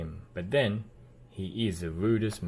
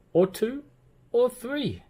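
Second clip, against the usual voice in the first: building glee; 7 dB louder than usual. A narrator's reading. Tickling mischief escalates.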